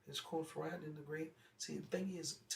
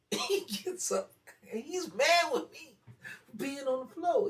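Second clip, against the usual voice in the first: high, loud, slow retelling of the uncle's anger; building outrage, higher and louder; heated retelling; 11 semitones higher, 13 dB louder, slower than usual. Real, not acted. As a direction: tell it all worked up, pitch climbing. Telling of uncle getting mad.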